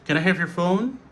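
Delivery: "your" weakened to yer; conversational question with reduced "your"; spoken-language reduction. Shown as a demonstration. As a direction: run it together casually, short "your". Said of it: "dans le langage parlé".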